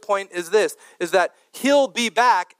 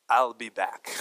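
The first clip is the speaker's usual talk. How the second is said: low, put-on German accent; comic German-accented action-hero impression; Terminator; 8 semitones lower, 4 dB quieter than usual. Preacher jokingly voices Jesus's promise to the church, in a German-accented Terminator voice. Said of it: "in a German accent".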